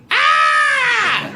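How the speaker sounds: very high, held scream; high-pitched comic scream of fright; terrified scream. Acted. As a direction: shriek in mock terror, one long note. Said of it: "He looks like this".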